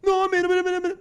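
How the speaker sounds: mock flustered stammer; stammering girl. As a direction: stutter through the denial, caught out. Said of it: "elle commence à bégayer".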